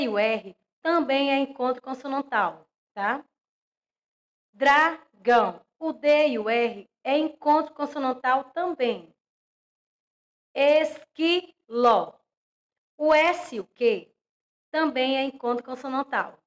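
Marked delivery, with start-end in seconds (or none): 4.5-5.6 Crocodilo stretched slowly, louder, each syllable clear; careful classroom modelling of Crocodilo; slow syllable demo. Shown as a demonstration. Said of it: "teacher models example word". 10.5-12.1 Crocodilo stretched slowly, louder, each syllable clear; careful classroom modelling of Crocodilo; slow syllable demo. Shown as a demonstration. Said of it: "teacher models example word".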